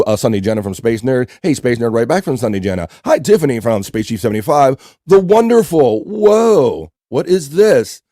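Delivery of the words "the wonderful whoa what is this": high, delighted surprise breaking off mid-intro; startled, higher and a bit louder; surprised. Real, not acted. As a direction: caught off guard by the screen, voice jumps up. Host spots something on screen.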